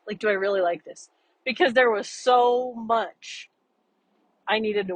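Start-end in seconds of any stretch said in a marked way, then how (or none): 0.1-1.1 faster, fuller-voiced repeat of the question; quicker repeat of the doubt. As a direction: rush the question out again at normal volume. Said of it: "it was that bad where I'm like".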